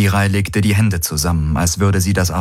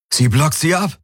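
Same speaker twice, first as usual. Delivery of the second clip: high, excited realisation; exclaiming; 8 semitones higher than usual. Acted. Galen tells Kirai the Helix is blocking, exclaiming. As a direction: call out the discovery. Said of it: "rief Galen aus".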